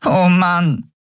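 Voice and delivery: high, near-crying groan; despairing sigh. Acted. Nelen sinks down in dismay, high and near tears. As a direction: give up in dismay.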